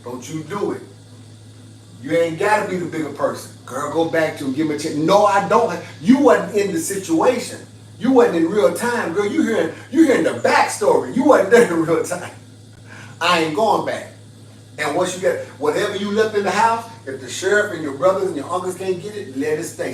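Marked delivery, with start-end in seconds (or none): 5.0-14.1 heated pushback. Real, not acted. Arguing with imagined advice.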